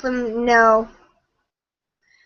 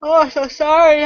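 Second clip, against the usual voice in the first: yawning; 2 semitones higher than usual. Real, not acted. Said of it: "I'm yawning".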